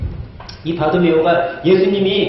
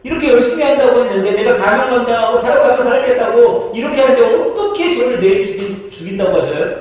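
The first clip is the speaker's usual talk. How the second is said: mock bargaining prayer; 5 semitones higher than usual. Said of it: "나는 아마 그렇게 기도했을 거야".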